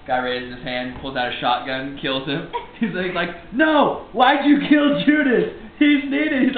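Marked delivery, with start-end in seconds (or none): 3.5-6.4 high, loud, drawn-out wail of objection; mock protesting cry. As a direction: plead in hammed-up outrage. Acted Jesus protesting Judas's killing.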